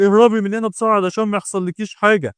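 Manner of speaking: loud, high-pitched desperate warning; fighting himself. A narrator's reading. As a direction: urge them to flee while struggling for control. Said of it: "وهو بيقول وهو بيقاوم نفسه".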